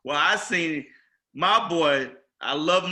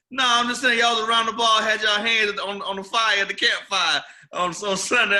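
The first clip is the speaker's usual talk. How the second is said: raised voice for the imitated customer; teasing customer; 4 semitones higher, 3 dB louder than usual. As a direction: deliver the jab as the customer. Customer delivers the punchline of tease.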